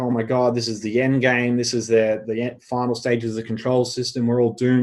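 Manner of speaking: ordinary talk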